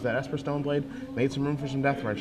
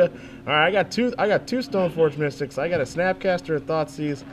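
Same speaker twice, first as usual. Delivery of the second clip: a hint of a New Jersey guy reading his hand; Jersey accent; 2 semitones higher than usual. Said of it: "This is my best Jersey accent".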